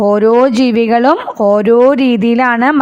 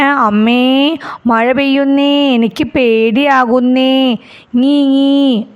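mock crying chick; slower than usual. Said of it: "കരഞ്ഞുകൊണ്ട് പറയല്ലേ".

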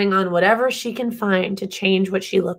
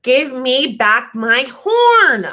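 demanding; 3 semitones higher, 4 dB louder, much slower than usual. Acted. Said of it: "she says".

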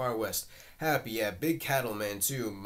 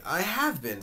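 lightly arch, lifted higher; a touch of coy archness, pitched up; a little archly; 6 semitones higher, 4 dB louder than usual. Acted. Girl answering Happy's compliment, a little archly. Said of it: "looking at him a little archly".

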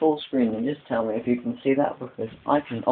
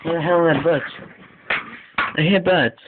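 mock-panicked kid hearing birds, pitched up; imagined kid panicking; 3 semitones higher than usual. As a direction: play the confused kid who swears he hears birds. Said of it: "You're like".

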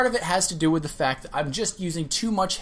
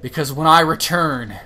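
louder, slow gloating villain threat; hammed-up villain vow; 5 dB louder than usual. To his selfish viewers, a hammed-up villain's vow of revenge. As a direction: play the vengeful villain, drawing it out.

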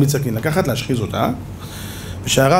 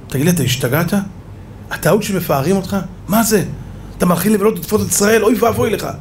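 a mild rebuke climbing higher; rising rebuke; 4 semitones higher, faster than usual. Retold or imitated. The Baal Shem Tov rebuking the proud slaughterer, rising reproach. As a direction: scold him, pitch climbing.

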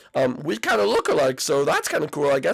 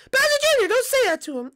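high mom voice with a firm telling-off; scolding mom; faster than usual. Acted. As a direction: stop your son being rude. Mom scolds rude son.

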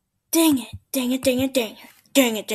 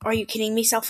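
quoting himself softly; 3 semitones lower, 6 dB quieter, faster than usual. Shown as a demonstration. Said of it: "I'll never say".

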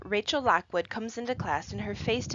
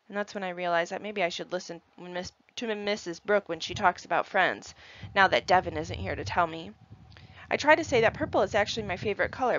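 plain reading voice

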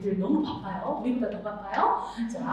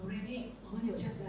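polite mid pitch; 4 semitones lower, 15 dB quieter than usual. Shown as a demonstration. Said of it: "미는 학부모 상대로".

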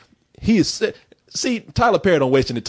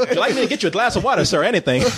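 servile underling; 5 semitones higher, faster than usual. Pretend. Playing servile to a big man.

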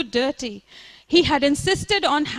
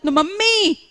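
higher, louder mock protest; theatrical scream; 6 semitones higher, 4 dB louder than usual. Leela stopping her mother's singing, hammed-up scream. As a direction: shriek it like a drama queen. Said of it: "Leela screamed theatrically".

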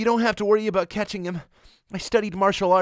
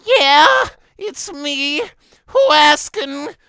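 much higher and louder, shouted, hammed-up thug; mock gruff shout; 5 semitones higher, 10 dB louder, slower than usual. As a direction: bark it into the phone like a tough guy. Character answers phone, shouting.

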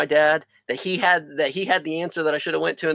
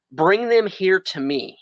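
slow Jesus line; 3 semitones higher, slower than usual. Acted. Reads Jesus's words slowly.

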